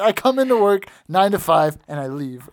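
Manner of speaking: put-on high, loud gruff old boss; gravelly old tycoon. Imitating Regal, first take.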